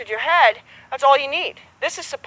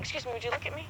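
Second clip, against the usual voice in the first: polite; 16 dB quieter, faster than usual. Shown as a demonstration. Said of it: "grabbing somebody and saying".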